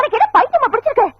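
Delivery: high-pitched indignant scolding; indignant rebuke. Acted. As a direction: tell off a pestering suitor. Angry rebuke of pestering suitor.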